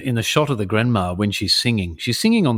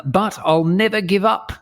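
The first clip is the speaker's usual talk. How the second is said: higher, resolute mock declaration; lightly performed lyric, pitched up; Grandma Shark; 7 semitones higher than usual. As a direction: proclaim it as the plucky shark. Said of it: "she says".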